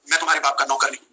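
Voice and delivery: low, deliberate film-dialogue voice; Salman Khan. Retold or imitated. Film star refuses a request to murder someone, imitated low dialogue voice. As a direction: imitate a movie star's refusal, pitched well down. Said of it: "Salman भाई ने बहुत famous dialogue दिया है".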